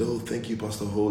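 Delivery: Pastor Ho, with an h before the O; says Ho for O. Retold or imitated. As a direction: Binta thanking the pastor, saying Ho. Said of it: "she calls me Pastor Ho".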